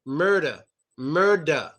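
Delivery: "murder" said as "mur-da". Shown as a demonstration. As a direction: end "murder" on an open A. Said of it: "We pronounce the E R as an A".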